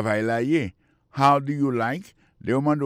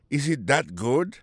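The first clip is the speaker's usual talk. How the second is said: "that" stressed before "good"; emphasis on THAT; 3 semitones higher than usual. Shown as a demonstration. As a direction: put the weight on "that" as you ask. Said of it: "c'est une façon pour mettre en phase". (mete anfaz sou "that")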